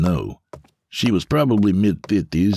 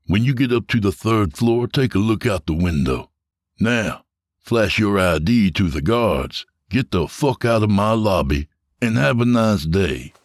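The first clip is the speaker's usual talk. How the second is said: smug James; 3 semitones higher than usual. Acted. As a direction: lord it over him, enjoying every word. James dismissing Harper.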